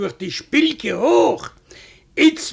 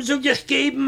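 ordinary delivery, nothing marked

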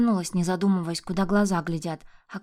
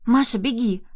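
loud, higher urgent shout; 5 semitones higher, 6 dB louder than usual. Acted. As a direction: scream at the child to flee. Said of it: "закричала Полина". (отчаянный крик)

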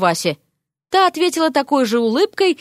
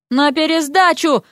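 higher, moderately forceful bark; barked order; 5 semitones higher than usual. A narrator's reading. Examiner to his departing wife, barking mildly. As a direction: send it after them as a sharp order. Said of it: "рявкнул Эрик вдогонку жене".

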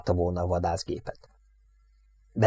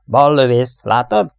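calling out; 4 semitones higher, 7 dB louder, slower than usual. Acted. Crew calls out in battle.

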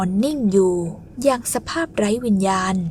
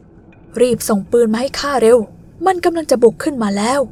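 louder, slow, urgent command; loud urgent order; 2 semitones higher, 5 dB louder than usual. Acted. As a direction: bark the order in a panic. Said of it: "เรียกสั่งนายเล่าอูเสียงดังลั่น". (ตะโกนสั่งเสียงดังอย่างร้อนรน)

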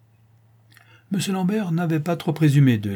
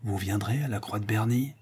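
softer, secret question; said low; 6 dB quieter than usual. Acted. Luxeuil asks Francine in secret, softly and low. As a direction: murmur it so no one overhears. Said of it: "pour dire tout bas".

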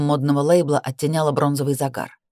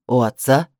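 lower, spitting the words like a curse; spat out; 5 semitones lower than usual. A narrator's reading. Brother mocking sister's word father, spat contemptuously. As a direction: sneer it like an insult. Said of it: "Выплюнул это «у отца» как ругательство".

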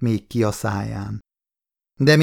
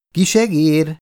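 restrained call in a higher pitch; hoarse old shout; 6 semitones higher, 4 dB louder than usual. A narrator's reading. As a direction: call out lightly as a smoky old voice. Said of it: "A kiáltás ... Rekett, cigarettától füstös, öreg hang".

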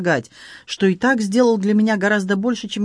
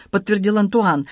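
usual speaking voice

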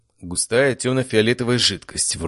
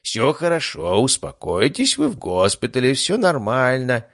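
higher-pitched reassurance, drawn out at the end; soothing; 5 semitones higher, slower than usual. A narrator's reading. Chief doctor loosening grandmother's bonds, lightly soothing in higher pitch. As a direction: reassure with a lifted voice. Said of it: "начал успокаивать её Анатолий Фёдорович".

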